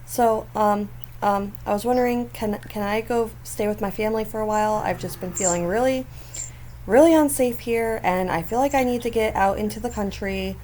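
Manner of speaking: timid plea. Retold or imitated. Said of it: "She's like".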